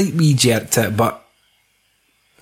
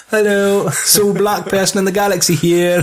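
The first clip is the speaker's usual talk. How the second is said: lightly voiced Lando, pitched up; mock Lando; 7 semitones higher than usual. Podcaster voicing Lando's greeting, raised pitch. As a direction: play the smooth intro, tongue in cheek.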